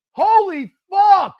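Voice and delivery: high, slow, drawn-out yell; disbelieving shout. Real, not acted. Watching her team blow it, slow loud disbelief. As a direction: stretch it out in shock.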